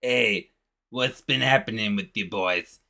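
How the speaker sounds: lightly voiced Rockman cartoon character; a hint of a laid-back cartoon rock figure. Rockman greeting the boy and his dog, lightly imitated. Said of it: "Like that".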